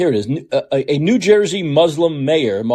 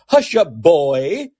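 lightly mimicked Southern accent; derisive Southern accent; 4 semitones higher, much slower than usual. President to an audience member, in a derisive Southern accent. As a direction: put on a mocking Southern lilt. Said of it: "derisively mimicking a Southern accent".

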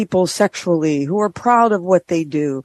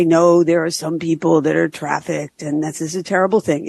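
fast, silly clown voice. Acted. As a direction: say it like a goofy clown. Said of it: "I don't mean to talk in a clown voice".

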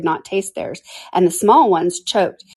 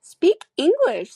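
high, slow, drawn-out objection; indignant protest; 11 semitones higher, much slower than usual. A narrator's reading. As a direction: protest in a raised, exasperated pitch. Eaglet objects to long words.

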